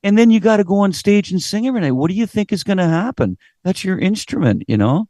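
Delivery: high, lively telling-off; incredulous scolding rant; scolding lecture. Retold or imitated. Lecturing the partying singer.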